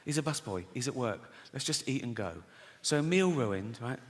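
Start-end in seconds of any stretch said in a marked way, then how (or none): 0.0-2.4 imitating a wife's low, soft reproach; hushed pleading. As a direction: keep it down, placate him. Wife hushes him in restaurant.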